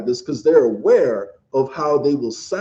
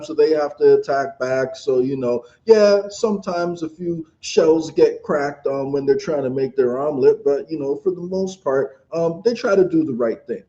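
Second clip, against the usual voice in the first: mock Western talking point; 3 semitones higher than usual. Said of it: "the line they take over here in the West is".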